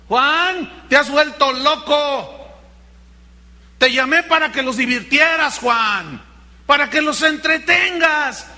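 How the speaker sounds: mock sarcastic Jesus. Jesus sends Juan to the desert, hammed-up sarcasm. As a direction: tease him out the door.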